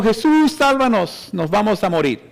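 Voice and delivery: disciples crying out in the storm, only half-shouted; mock frantic shout. Preacher voicing the disciples calling Jesus, mild mock yell. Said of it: "por el barco gritando".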